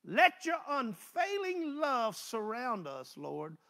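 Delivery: slow, solemn psalm reading; scripture reading. Acted. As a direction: stretch each word of the verse like a prayer. Rereading the psalm.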